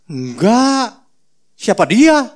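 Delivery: mock Peter denying Jesus. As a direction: brush the question off fast. Peter denies knowing Jesus.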